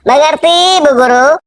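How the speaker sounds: put-on high, bright chorus of children; pupils answering in chorus. Pupils chanting back to the teacher in a high chorus. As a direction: answer like a whole class at once. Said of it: "Murid-murid pun menjawab kompak".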